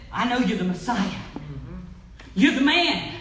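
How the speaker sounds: loud, desperate plea for mercy; pleading Bartimaeus. Retold or imitated. Blind Bartimaeus begging Jesus, loud pleading cry. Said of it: "blind Bartimaeus came to Jesus and he said".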